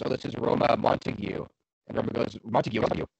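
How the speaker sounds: flat robot voice; deadpan robotic narration. Acted. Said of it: "you had robot voice for half of that".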